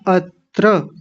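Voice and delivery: अत्र slowly as at-tra, held on the t; careful pronunciation. Shown as a demonstration. Teacher corrects the first word, careful अत्र as at-tra. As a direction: separate अत्र into two full syllables. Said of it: "अत्र नहीं कहना".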